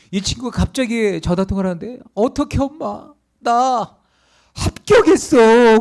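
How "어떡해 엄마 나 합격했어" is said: high, drawn-out acted shout; ringing loud announcement. Student telling mom of college acceptance on the train, ringing loud shout. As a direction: build from a high cry to a booming, stretched yell. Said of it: "큰 소리로 쩌렁쩌렁하게".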